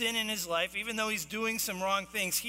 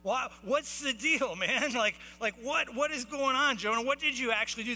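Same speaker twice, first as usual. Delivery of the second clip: raised, higher-pitched incredulous demand; acted yelling; 5 semitones higher than usual. Sailors demanding answers from Jonah mid-storm, mock screaming. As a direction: play a sailor hollering questions, half-shouted. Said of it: "They're screaming at the top of their lungs".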